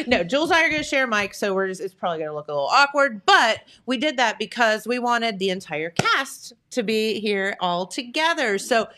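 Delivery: ordinary talk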